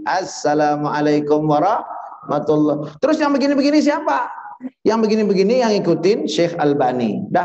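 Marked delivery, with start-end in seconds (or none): 0.0-3.0 slow, measured prayer salam; evenly intoned salam; closing salam. Shown as a demonstration. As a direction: demonstrate the closing greeting of prayer, unhurried. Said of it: "tangan kita begini lagi".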